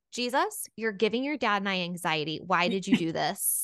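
lightly voiced scolding mother; mock chastising mom. Mom to son about the anxiety he caused, mildly chastising. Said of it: "his mom kind of chastises him".

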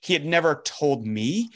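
ordinary talk

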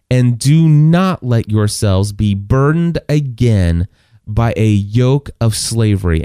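slow, weighty reading; slow scripture reading. Acted. Preacher reading Galatians to the church, slow and weighty. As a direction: stress each phrase slowly.

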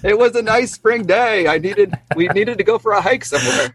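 light, high-voiced excuse-making; mock defensive. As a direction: plead your case in pretend innocence. Playful self-defence after mock scolding.

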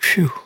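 imitated relieved "phew"; sigh of relief. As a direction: let out a mock sigh of relief. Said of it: "there's a sigh of relief".

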